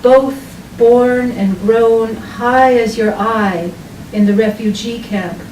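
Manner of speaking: measured poem recital with deliberate pauses; unhurried literary reading, evenly paced; poetry reading. Acted. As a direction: read it as a poem, phrase by phrase, letting each image land. Reads own poem aloud.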